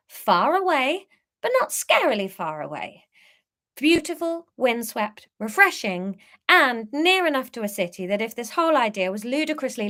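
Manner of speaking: measured, clearly phrased storytelling; story narration. A narrator's reading. Author reading a van trip story to listeners, narrating. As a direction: read the tale aloud to listeners. Reads own story aloud.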